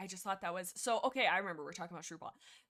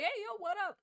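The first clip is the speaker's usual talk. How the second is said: high, breezy "yo what up" cats; casual bro greeting; 11 semitones higher, 4 dB louder than usual. Retold or imitated. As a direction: toss it off like cocky returning cats. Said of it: "they're like".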